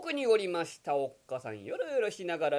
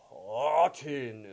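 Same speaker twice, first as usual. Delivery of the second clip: puzzled; 6 semitones lower, much slower than usual. Acted. Yokozuna puzzled, can't lift.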